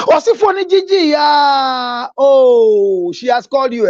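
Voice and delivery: high crying outburst; crying shout. Retold or imitated. Wife crying out at husband over the call, a high sobbing shout. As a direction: cry out as if betrayed.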